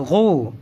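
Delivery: "غو" with throat gh and long vowel; ghoo pronunciation. Shown as a demonstration. Teacher showing ghain with pesh above, ghoo pronunciation. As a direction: draw out "غو" slowly from the throat. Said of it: "ہم تلفظ کریں گے".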